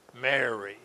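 softly spoken name, gently falling; knowing, familiar tone. Acted. Jesus makes himself known to Mary, soft familiar tone. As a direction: say the name softly so she knows you. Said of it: "Probably in a tone of voice".

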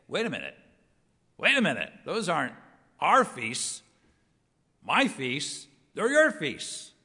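mock-indignant correction; acted objection. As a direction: object in short, emphatic bursts. Voicing an objection to God's words.

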